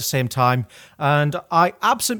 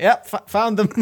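higher, sheepish admission; 7 semitones higher, 3 dB louder than usual. Retold or imitated. Worker confessing the burnt buns to manager, sheepish. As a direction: own up with a guilty little laugh. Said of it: "I was like".

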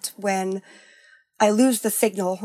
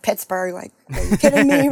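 incredulous; 4 dB louder than usual. Retold or imitated. Boyfriend scoffing at her move to Pittsburgh, mock incredulous. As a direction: scoff at the very idea. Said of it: "he's like".

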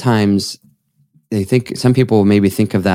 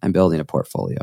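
low, underplayed quote after the enthusiasm; unimpressed mock quote; 4 semitones lower, 4 dB quieter, faster than usual. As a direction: say it like a dull, small ambition. Mocks the limited view by contrast.

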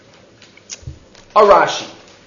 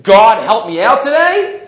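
higher, rising mock-disbelief; incredulous quote; 4 semitones higher, 4 dB louder than usual. Teacher doubting Esav would talk this way, incredulous. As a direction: quote it as an unlikely thing to say. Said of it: "Esav doesn't say".

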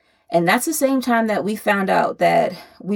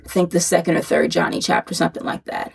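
breathless, winded delivery; talking while short of breath. Real, not acted. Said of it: "I'm out of breath because I'm pregnant again".

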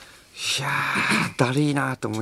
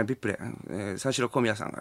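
softer, fast mutter into a headset; mumbling into intercom; 4 semitones lower, 10 dB quieter, faster than usual. Retold or imitated. Catch man muttering into his intercom to staff. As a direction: mumble it quickly into the mic. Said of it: "なんかちょっとなんかゴニョゴニョ言ってんの".

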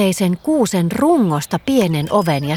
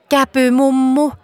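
a light mock squeal of joy, a bit louder and higher; gleeful whoop; 5 semitones higher, 3 dB louder than usual. A narrator's reading. Green fox greeting granny as he bursts in, mild happy whoop. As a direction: call it out happily, not a full shriek. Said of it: "vihreä kettu hihkaisi".

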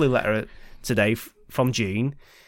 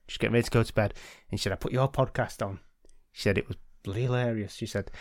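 put-on light Yorkshire old lady voice; mild Yorkshire granny impression; Yorkshire accent. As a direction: read her letter with a hint of Yorkshire. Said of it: "Why is she Yorkshire?".

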